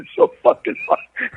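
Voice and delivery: words squeezed out through laughter; can't get through it for laughing; laughing helplessly. Real, not acted. Son recalling dad's stolen tires, laughing hard.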